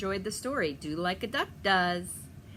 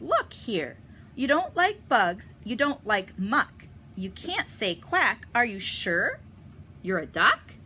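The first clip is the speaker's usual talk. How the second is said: louder, higher, scolding mother duck; Mama Duck; 4 semitones higher, 8 dB louder than usual. Acted. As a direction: challenge him like a suspicious mother. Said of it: "Mama turns and catches him and says".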